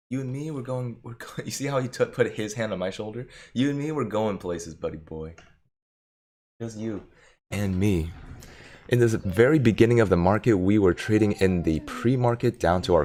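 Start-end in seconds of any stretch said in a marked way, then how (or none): 0.1-8.1 soft, tender coo to a buddy dog; tender pet talk, soft and higher. Real, not acted. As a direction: hush your voice and woo the dog. Cooing to the dog.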